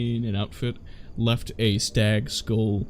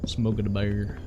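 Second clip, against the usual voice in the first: thick Canadian accent, hamming it up; 2 semitones lower than usual. Shown as a demonstration. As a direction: say it as Canadian as you can. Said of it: "in the most Canadian accent you can".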